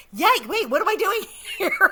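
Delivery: high, loud comic panic breaking into laughter; hammed-up sudden alarm, laughing at the end; mock panic. Bride realizing she's married to a stranger, hammed-up panic. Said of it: "And the panic sets in".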